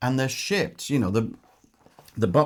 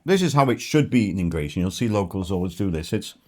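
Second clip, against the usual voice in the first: speaking while chewing; talking through a bite; mouth full; 3 semitones lower than usual. Real, not acted. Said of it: "apologies speaking with my mouth full".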